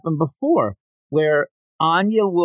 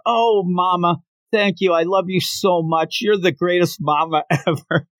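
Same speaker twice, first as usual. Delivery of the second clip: higher-pitched, laid-on adoration; over-the-top gushing; 4 semitones higher than usual. Acted. Anya throws herself at Yor, gushing over the top. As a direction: lay the love on thick, pitched up. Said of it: "going so over the top".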